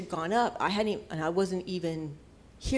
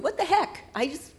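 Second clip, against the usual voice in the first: retold self-exasperation; 9 semitones higher than usual. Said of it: "I was yelling at them and going".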